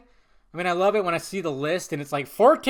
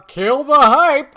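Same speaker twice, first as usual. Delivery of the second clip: kill the hype, slow and louder; stressed slowly; 9 semitones higher, 14 dB louder, slower than usual. Real, not acted. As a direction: lean hard on "kill the hype". Accused of killing the hype.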